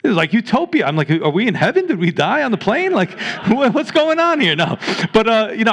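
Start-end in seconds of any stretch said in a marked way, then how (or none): 1.1-4.5 higher-pitched playful disbelief, rising to the end; mock bewilderment. Preacher retelling his amazement at a Christian town, mock bewilderment. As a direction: act out comic astonishment. Astonished at everyone being Christian.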